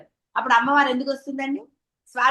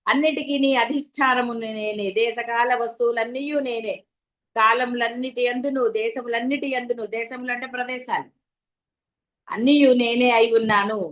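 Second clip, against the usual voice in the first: scripture recitation. Acted. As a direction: recite the text with reverence. Reciting scripture passage in discourse.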